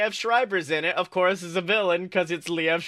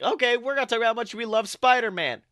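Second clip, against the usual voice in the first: fast, rising to a loud laughing curse; gleeful podcast plan ending in a loud laughing curse; mock cheerful plan; 5 semitones higher, 3 dB louder than usual. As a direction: rattle off the plan, then blurt the curse. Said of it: "we're like".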